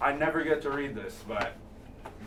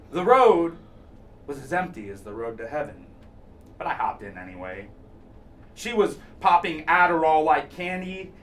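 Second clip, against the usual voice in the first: measured poem recital with pauses between phrases; spoken-word delivery, lines falling away at the ends; poetry reading; 3 semitones higher than usual. Acted. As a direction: read the poem aloud, letting each line settle. Reads a narrative poem.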